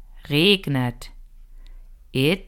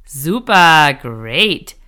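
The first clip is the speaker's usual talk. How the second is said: cheerful praise; 7 dB louder, slower than usual. Real, not acted. Teacher praises the learner.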